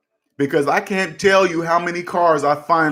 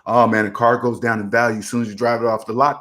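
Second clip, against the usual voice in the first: lower, quicker mimicked complaint; lightly mock what everybody says; people's common saying; 5 semitones lower than usual. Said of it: "people always say that".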